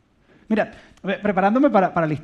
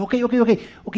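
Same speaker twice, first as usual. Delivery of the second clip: reluctant giving in; 7 semitones higher than usual. Retold or imitated. Leader giving in.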